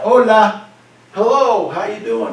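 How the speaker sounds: high, demonstrative call-out; shouted greeting. Shown as a demonstration. Teacher acts greeting someone seen across the street, shouting out. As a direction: holler hello as if across a street. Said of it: "I'm gonna shout out".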